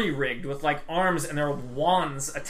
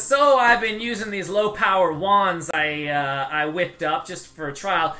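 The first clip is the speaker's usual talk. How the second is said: proudly explaining her secret project; eager tinkerer Stoila; 3 semitones higher, 4 dB louder than usual. Acted. GM voices NPC Stoila.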